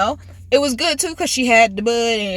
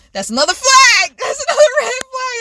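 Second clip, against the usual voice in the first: laughing; 12 semitones higher, 3 dB louder than usual. Real, not acted. Laughing about red flags.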